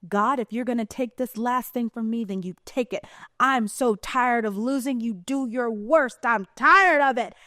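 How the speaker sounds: defiant cry at the sky, slowing and rising; imitating Lieutenant Dan. Lieutenant Dan daring God in the storm, acted defiance. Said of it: "he is screaming at the sky".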